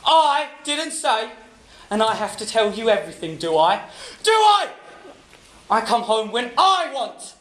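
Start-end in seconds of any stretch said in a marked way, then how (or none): 0.1-1.3 mocking echo. Husband mockingly repeats wife. 4.2-4.7 higher, louder repeated question; angry taunt. Acted. Husband's rising taunt.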